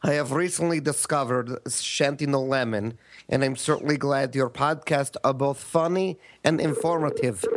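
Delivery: lightly put-on Russian accent reading an email; a hint of a Russian accent; mock Russian accent. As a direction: read it like a Russian, hammed-up. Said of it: "do it in a Russian accent".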